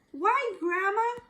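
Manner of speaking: slow, wary drawl; slowly. Acted. Little Red slowly addressing the strange Grandma. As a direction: draw it out, uneasy. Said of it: "she said slowly".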